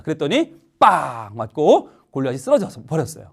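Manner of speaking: ordinary delivery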